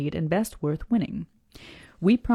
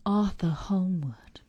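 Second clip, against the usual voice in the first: whispering; slower than usual. Acted. Repeats name in slow whisper.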